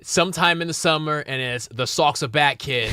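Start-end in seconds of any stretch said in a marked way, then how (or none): 1.7-2.9 put-on Boston fan voice, "Sox are back, kid"; thick Boston accent, dropped r's. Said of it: "That's a good Boston accent".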